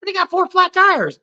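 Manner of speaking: mock self-pity. Buddy fakes a sob story.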